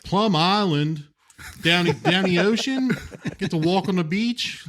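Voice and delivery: high, slow Baltimore drawl on down the ocean; Hannibal Lecter with a Baltimore accent. Retold or imitated. Podcast host imitating Baltimore Hannibal Lecter, high and slow. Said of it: "what would that sound like".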